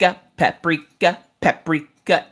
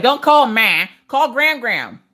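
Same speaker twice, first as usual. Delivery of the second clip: exasperated correction; 4 semitones higher than usual. Acted. Correcting Echo's wrong call.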